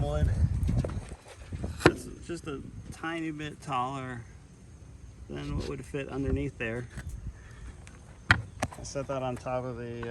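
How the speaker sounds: muffled, echoing inside a welding helmet. Real, not acted. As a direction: talk from under a helmet. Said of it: "Sorry if it's echoing, my helmet's on".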